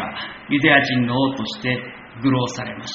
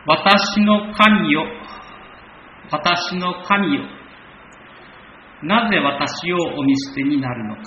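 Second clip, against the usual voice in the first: solemn reading; 3 semitones higher than usual. Acted. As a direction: proclaim the psalm to the congregation. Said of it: "この二十二編の".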